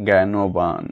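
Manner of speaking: জ্ঞানবান said as "genoban"; standard pronunciation. Shown as a demonstration. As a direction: start জ্ঞানবান with a "ge" sound. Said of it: "প্রমিত উচ্চারণ হল".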